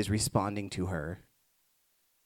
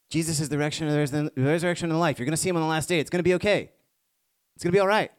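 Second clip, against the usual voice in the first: rising higher and louder to a ringing reassurance; building exclamation; 6 semitones higher, 4 dB louder, much faster than usual. Acted. Preacher lifting a grieving congregation, building louder and higher. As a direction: build it up until the last line rings out.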